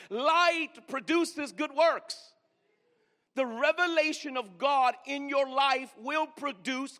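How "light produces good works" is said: stretched slow, each word weighed; slow, deliberate. Shown as a demonstration. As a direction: drag out "Light produces good works" slowly. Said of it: "Let me say that one more time".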